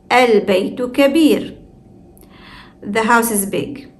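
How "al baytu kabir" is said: Al begun with a clear opening vowel; hamza pronounced. Shown as a demonstration. Teacher repeats sentence-initial Al, hamza pronounced. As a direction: sound the hamza at the start of Al. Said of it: "we pronounce it".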